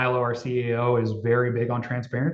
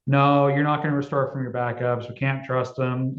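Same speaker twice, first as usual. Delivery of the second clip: put-on Southern accent. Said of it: "I'm trying to do a Southern accent".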